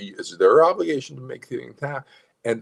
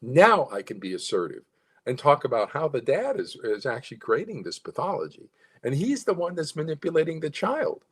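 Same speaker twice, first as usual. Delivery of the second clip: assertive but with a smile and a lilt; happy lilting tone; 6 semitones higher than usual. Shown as a demonstration. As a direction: say it friendly, as if smiling. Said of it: "you can hear the change in my voice".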